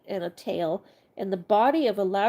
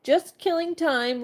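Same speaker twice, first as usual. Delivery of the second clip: higher, slow and apologetic; 8 semitones higher, 3 dB louder, slower than usual. Acted. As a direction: say it sheepishly, slowly. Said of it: "replied Milo apologetically".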